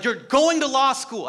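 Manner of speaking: hammed-up dad insisting, half laughing; father pushing son into law school, mock stern; dad's stern order. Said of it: "he's like".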